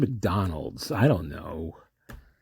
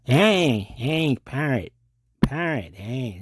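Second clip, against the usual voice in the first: Robert Blake impression; 5 semitones higher, slower than usual. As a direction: bark it out high like a film tough guy. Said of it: "maybe I could do better".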